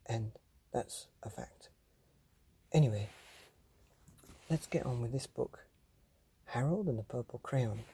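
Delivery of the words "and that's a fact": soft whispered aside; quiet whispered punchline. Pretend. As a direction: drop to a hush to seal it. Whispered aside after giveaway.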